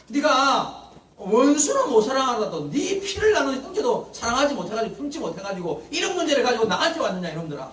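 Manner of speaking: hammed-up exasperated rebuke, half laughing; angry scolding. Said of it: "얼마나 화가 났냔 말이에요".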